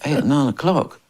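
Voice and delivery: rising, can't-believe-it echo; incredulous echo of the start time; disbelieving question. Retold or imitated. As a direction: repeat the time back in disbelief.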